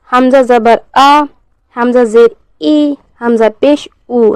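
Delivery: deliberate recitation with a light catch starting "आ", "ई", "ऊ"; slow spelling-out, glottal onset on "आ", "ई", "ऊ"; light hamza jerk. Shown as a demonstration. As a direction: give "आ", "ई" and "ऊ" a slight jolt at the onset. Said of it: "हल्का झटका देकर पढ़ते हैं".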